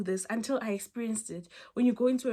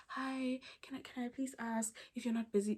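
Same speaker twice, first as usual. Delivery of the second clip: timid asking demo; 2 semitones higher, 7 dB quieter than usual. Shown as a demonstration.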